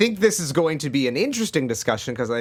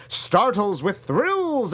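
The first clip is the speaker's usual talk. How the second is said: dramatic tagline read; 5 semitones higher, much slower than usual. Acted. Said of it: "this was the tagline they used".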